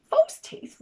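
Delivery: roaring question. Acted. Giant roaring in surprise at the idea of false teeth. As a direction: shout it out in amazement. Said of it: "roared the giant".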